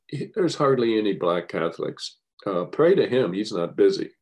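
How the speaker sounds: half-acted priest, nudging her upbeat; retold priest quote.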